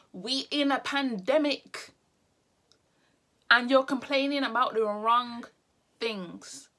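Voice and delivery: slowed down, each word laid out deliberately; patient, over-clear restatement for slow listeners; slow, spelled out. Shown as a demonstration. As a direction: speak it slowly as if to a slow listener. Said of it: "Let me reiterate it, because you seem a bit slow".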